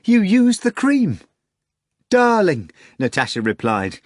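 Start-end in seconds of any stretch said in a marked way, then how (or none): 0.0-1.2 high, slow, loud cry; excited shout. Acted. Margarita shouting to Natasha mid-flight, high and loud. 2.1-2.7 high loud greeting; screaming. Acted. Natasha screaming back to Margarita, high and loud. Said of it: "rousing ... with her screaming".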